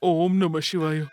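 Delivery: slow prayer. Acted. Brother prays in temple.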